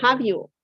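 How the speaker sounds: "Have you?" said with the voice going up; rising tag. Shown as a demonstration. Teacher isolates the rising tag. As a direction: lift "Have you?" as a real question. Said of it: "My voice goes up".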